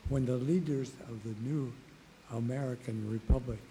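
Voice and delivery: too quiet to carry, voice fading; straining hoarse voice; weak hoarse voice. Real, not acted. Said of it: "Can you hear in the back?".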